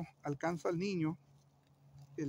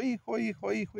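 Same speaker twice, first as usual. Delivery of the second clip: mock mother's cry; 4 semitones higher than usual. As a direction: lightly imitate a mom calling her son. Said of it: "la mamá sigue gritando". (grito fingido de mamá, agudo)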